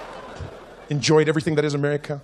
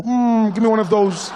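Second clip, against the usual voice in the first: a lightly voiced hungry burger, louder and higher; burger ordering; 3 semitones higher, 5 dB louder, slower than usual. Burger ordering people, loud mock customer voice. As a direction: play a greedy burger placing its order. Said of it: "Now the burgers are ordering people".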